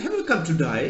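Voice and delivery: a hint of Australian accent, "die" for day; lightly repeating Australian "die". Australian repeating his question, mild Australian accent. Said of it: "That is how an Australian pronounces".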